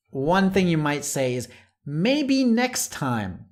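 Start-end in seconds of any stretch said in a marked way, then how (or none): 1.8-3.5 gentle letdown. Shown as a demonstration. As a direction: decline kindly so it doesn't hurt. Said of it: "let someone down gently".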